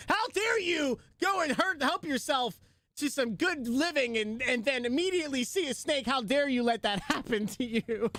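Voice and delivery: imitating sister-in-law. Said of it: "was like".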